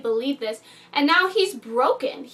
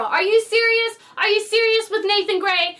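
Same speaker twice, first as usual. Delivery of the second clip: mock indignation; 4 semitones higher than usual. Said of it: "I was so mad at that girl".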